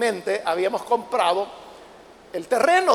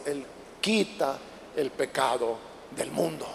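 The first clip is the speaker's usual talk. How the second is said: slow, much softer and lower; John's words, whispered low; hushed reverence; 9 semitones lower, 9 dB quieter than usual. Acted. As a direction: lay it down softly, in awe. Quoting John, hushed.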